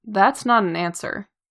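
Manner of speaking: ordinary delivery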